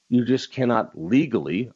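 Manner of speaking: weight on "legally" as the key word; stress on legally. Real, not acted. Talk host spelling out a gun law, stress on "legally". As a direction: underline "legally" with the voice. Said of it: "underline the word legally".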